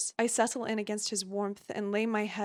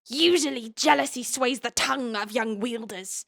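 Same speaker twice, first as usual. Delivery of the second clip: evil cave dweller. Acted. The sage demanding Violet show her power, as a light evil cave dweller. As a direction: ham up a villain from the caves, but only lightly. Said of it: "evil cave dweller".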